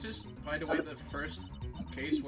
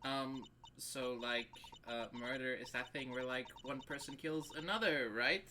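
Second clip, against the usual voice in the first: put-on valley girl voice; 5 dB louder than usual. Same ditzy girl character.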